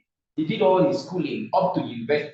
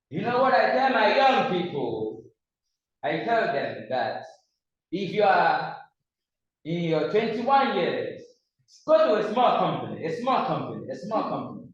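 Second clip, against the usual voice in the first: put-on Chinese accent; 3 semitones higher than usual. Imitating a Chinese businessman advising young people, light Chinese accent. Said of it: "That's how he speaks".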